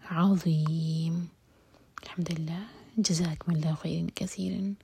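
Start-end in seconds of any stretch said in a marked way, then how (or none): 0.1-1.2 عظیم very slow, ع from the throat, م stopped; throat ayn. Shown as a demonstration. Teacher draws out عظیم to model the ayn. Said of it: "میم کو ساکن کیا جائے گا".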